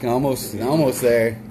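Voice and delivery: talking through a mouthful; words round a bite of food; mouth full. Real, not acted. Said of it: "stuffing his mouth right now with that nice hot pocket".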